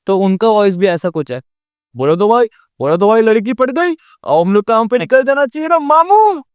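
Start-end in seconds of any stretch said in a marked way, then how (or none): 2.0-6.4 a hint of Mumbai tapori sidekick; breezy street-slang sidekick; Circuit voice. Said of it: "तो ये tone है उनका".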